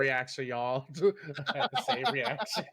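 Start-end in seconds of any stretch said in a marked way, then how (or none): 0.9-2.7 laughing. Real, not acted. Laughing at the reveal.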